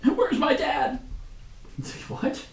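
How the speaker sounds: very high little put-on voice; desperate crowd member. Someone present questioning the commander, high mock desperation. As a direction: pipe up high with a plaintive question.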